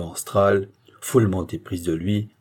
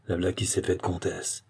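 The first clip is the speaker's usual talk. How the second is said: admiring aside; 7 dB quieter than usual. A narrator's reading. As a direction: say it to yourself, impressed. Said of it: "se dit Léopold, admiratif". (aparté admiratif, à mi-voix)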